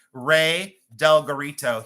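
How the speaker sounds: Ray Del Garrito said slowly, each part given its own weight; spelled-out pronunciation. Shown as a demonstration. Host sounding out the silversmith's name for the chat, slow and deliberate. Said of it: "spelled like it said".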